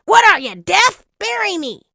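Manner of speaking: high, loud exasperated bean; irate little creature voice; tiny bean voice. A narrator's reading. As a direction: squeak it impatiently, demanding to be heard. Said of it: "They were talking".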